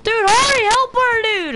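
high yelling, urging hurry; frantic shout. Real, not acted. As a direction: shout for help, high-pitched. Urging team to save her.

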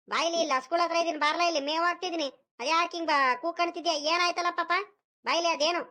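calling over. Acted. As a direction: summon the boy from across the yard. Grandfather calls the boy over.

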